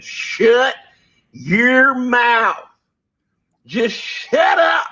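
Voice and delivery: high, loud mocking shout, very slow at the end. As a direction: parody the pastor's yell, stretched out.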